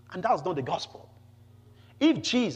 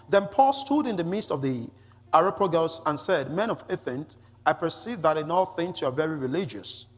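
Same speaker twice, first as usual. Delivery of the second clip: emphatic, slightly raised public reading; scripture reading. Acted. Preacher reads Paul's Athens speech to the congregation, emphatic scripture reading. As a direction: read the passage out firmly to a congregation.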